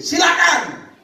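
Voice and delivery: high, hearty permission; emphatic go-ahead. Retold or imitated. Preacher lets the man try it, high emphatic go-ahead. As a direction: give permission with the pitch flung up. Preacher grants the man's request.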